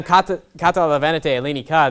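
"Kata, kata la venite eleni ka" spoken as modern Greek. Shown as a demonstration. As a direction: rattle it off like a Greek speaker. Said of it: "I'm speaking that in modern Greek".

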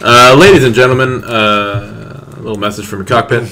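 pilot announcement. Pretend. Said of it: "do a pilot voice".

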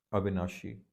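ਅਵਿਨਾਸ਼ੀ with a clear sh before the last vowel; sh sound. Shown as a demonstration. Teacher showing the dotted letter, ਅਵਿਨਾਸ਼ੀ said with sh. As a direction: say ਅਵਿਨਾਸ਼ੀ with sh, not s. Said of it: "ਸੱਸੇ ਪੈਰ ਬਿੰਦੀ ਲਾ ਕੇ".

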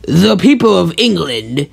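slow, stately announcement; measured speechmaking; Fat Controller's speech. Acted. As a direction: address the assembly slowly.

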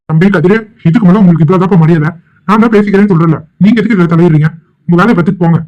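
stern, indignant telling-off; irritated elder laying down the law; angry warning. Acted. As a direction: warn him off with rising temper. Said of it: "என் மேல கோபப்படுறீங்க".

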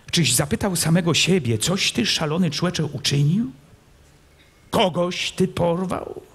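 scolding prince. A narrator's reading. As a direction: press him hard with every question.

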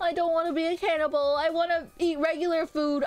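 high-pitched comic pleading; whiny protest. Real, not acted. Repeated whiny refusal to be cannibal.

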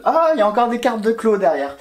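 high-pitched, laughing surprise; real surprise tipping into a laugh; amused surprise. Real, not acted. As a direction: exclaim on a sudden funny discovery. Discovers cards behind, laughs.

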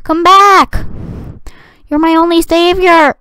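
high melodramatic plea; hammed-up high plea; mock pleading. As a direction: beg it like a hero will save you. Pleading with gravity coil.

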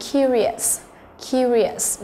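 "curious" stressed on CU; first-syllable stress. Shown as a demonstration. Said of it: "nó cũng là trọng âm thứ nhất".

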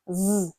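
voiced th with tongue between the teeth; tongue between teeth, hum «З» as voiced th; buzzed th. Shown as a demonstration. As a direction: hold «З» as a buzzing English th, like a bee. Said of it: "вийняти язика між зубів".

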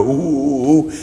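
mock gorilla "ooh ooh"; imitated gorilla hooting. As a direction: hoot lightly like a man playing gorilla. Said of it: "He's going, you know".

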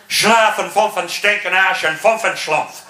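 gibberish in a mock German accent. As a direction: rattle off fake German. Mock German to Luftwaffe-suited man.

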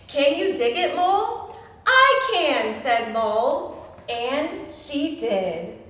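storytime read-aloud to little ones; gentle picture-book narration; story reading. A narrator's reading. Librarian reading the book to children, storytime voice.

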